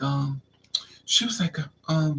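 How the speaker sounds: plain reading voice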